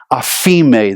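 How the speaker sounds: "aphime" said slowly and carefully as a Greek word; Greek word pronunciation. Shown as a demonstration. Preacher teaching the congregation a Greek word, "aphime" pronounced slowly and carefully. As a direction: sound out "aphime" slowly for learners. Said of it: "teach you a couple Greek words".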